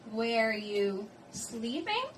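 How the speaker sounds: slow question, "sleeping" lifted at the end; measured model question climbing on "sleeping"; rising question intonation. Shown as a demonstration. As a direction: stretch the words, then rise on "sleeping". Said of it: "the intonation will rise at the end".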